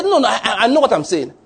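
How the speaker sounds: a colleague's amused insistence; laughing protest. Retold or imitated. Colleague laughs while insisting he knows what he's saying, laughing.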